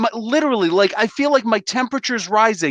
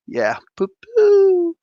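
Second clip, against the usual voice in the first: laughing mockery; much slower than usual. Real, not acted.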